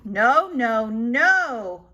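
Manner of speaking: loud, firm no; firm refusal. Acted. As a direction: stop the child firmly. Nanny forbids, louder.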